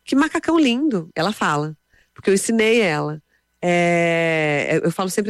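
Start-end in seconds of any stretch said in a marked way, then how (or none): 0.0-1.1 lightly voiced little girl, higher pitch; a higher, admiring child's line, lightly imitated; small daughter's compliment. Three-year-old admiring someone's outfit, lightly imitated child voice. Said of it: "ela vai olhar pra você e falar assim".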